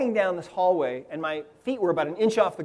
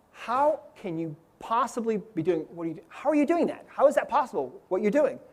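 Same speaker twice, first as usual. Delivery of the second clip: lightly voiced amazed children, pitched up; a higher, incredulous flurry of questions; astonished kids; 3 semitones higher, 3 dB quieter than usual. Following kids ask the floating man how, amazed. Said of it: "they're all saying to me".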